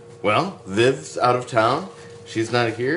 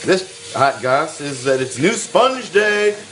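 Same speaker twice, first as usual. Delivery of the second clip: hype announcement; 7 semitones higher, 4 dB louder, slower than usual. Acted. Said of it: "I got all choked up about New Sponge Day".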